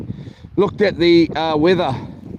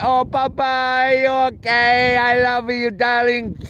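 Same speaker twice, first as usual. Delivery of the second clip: higher and slow, syrupy mock sweetness; drawn-out sugary phone goodbye; sing-song fake-nice farewell to the caller; fake sweet goodbye; 7 semitones higher, slower than usual. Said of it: "I was like".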